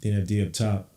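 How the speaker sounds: steady running game call; live play-by-play. Acted. Streamer narrating Knicks possessions, running commentary. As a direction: call each pass as it happens.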